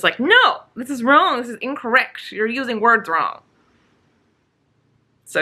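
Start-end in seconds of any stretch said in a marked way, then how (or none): 0.2-3.4 retold angry protest. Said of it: "So I'm just angry".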